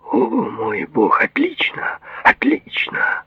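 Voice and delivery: slow, high-pitched exclamation of delight; elated. Acted. Patient rejoices at the doctor's tape, elated. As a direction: draw out the praise, high and thrilled.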